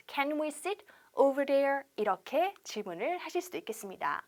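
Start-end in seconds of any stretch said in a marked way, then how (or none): 0.1-1.8 slow repeat. Shown as a demonstration. Teacher repeating the question for students, slowly. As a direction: question drawn out again. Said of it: "네".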